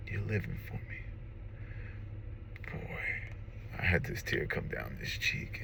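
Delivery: soft, breath catching with real emotion; choked up. Real, not acted. Father tearing up recalling his son's words. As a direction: hold back tears as you tell it. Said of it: "I get emotional, man".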